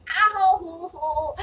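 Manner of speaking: sudden pained ow; hit my funny bone. Real, not acted. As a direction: yelp from a knocked elbow. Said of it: "I hit my funny bone".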